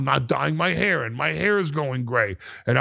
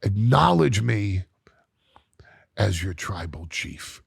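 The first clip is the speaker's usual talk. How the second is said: slow menacing demand; 5 semitones lower than usual. Retold or imitated. Solo demands he acknowledge him as tribal chief, slow and low. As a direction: drag it out like a final verdict. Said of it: "for the first time now, he says".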